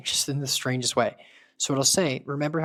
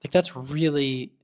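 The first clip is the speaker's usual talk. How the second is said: pleased; 4 dB louder than usual. Real, not acted. Agent ended call well.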